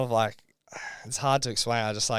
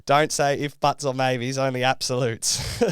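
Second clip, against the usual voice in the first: mock pep talk; 2 semitones higher, 6 dB louder than usual. Guest imitating the producer hyping him about Spain, excited. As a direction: play the fired-up producer selling the dream. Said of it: "and he goes".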